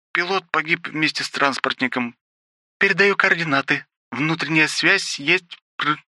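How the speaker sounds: high maid's voice, called out; the maid calling to her master over the radio; rough exclamation. Acted. Ruby reporting over radio.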